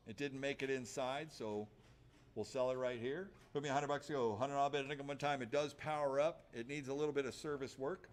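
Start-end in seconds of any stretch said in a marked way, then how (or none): 3.5-5.4 auctioneer. Acted. Auctioneer calling bids.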